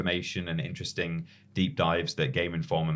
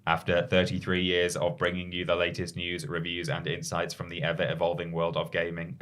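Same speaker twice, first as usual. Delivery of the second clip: robot voice. Pretend. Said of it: "Can you read it like a robot?".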